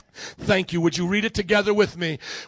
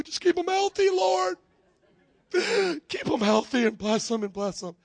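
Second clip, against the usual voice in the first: strained reluctant prayer; 4 semitones higher than usual. Acted. Acts reluctant prayer for coworker.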